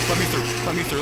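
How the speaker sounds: urgent pleading. Real, not acted. Pushing past mannequins.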